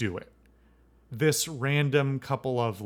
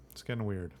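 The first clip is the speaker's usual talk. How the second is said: quiet repeat; 2 semitones lower, 6 dB quieter, faster than usual. Real, not acted. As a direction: mutter it back to yourself under the breath. Closing remark repeated.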